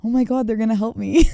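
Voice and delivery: mock your own gullible excitement; clueless, hopeful gush; naive self. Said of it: "my dumb ass goes".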